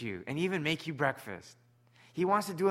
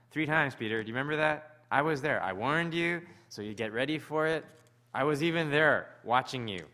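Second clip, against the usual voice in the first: stern reminder; 4 dB louder than usual. Retold or imitated. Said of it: "Or is it gonna be like".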